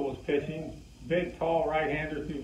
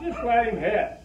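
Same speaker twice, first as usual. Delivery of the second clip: retold yell; 6 semitones higher, 4 dB louder than usual. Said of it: "yells out".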